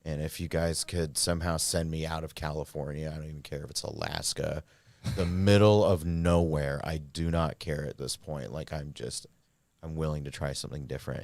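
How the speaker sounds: low, flat monotone voice. Retold or imitated. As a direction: say it in a dead monotone. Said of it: "like, monotone voice".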